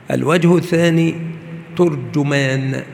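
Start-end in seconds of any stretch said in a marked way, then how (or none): 1.8-2.8 ترجمان said slowly as "turjumaan"; u-vowel on both ت and ج of ترجمان; damma on ta and jim. Shown as a demonstration. Teacher showing students the second form, ترجمان as turjumaan. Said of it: "بضم التاء والجيم".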